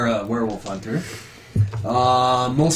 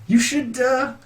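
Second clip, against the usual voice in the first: lightly voiced priest, pitch swinging higher in places; priest introducing cousin; 4 semitones higher than usual. Priest inviting the hunter to the tavern, lightly acted. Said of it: "he just says".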